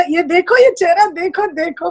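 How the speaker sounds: high, eager presenting; excited showing-off. Retold or imitated. Brother shows her glowing face to the elder mothers, high and eager.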